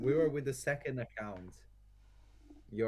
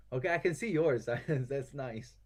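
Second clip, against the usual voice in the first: amused laughing; 4 semitones higher than usual. Real, not acted. Sees opponent's cards.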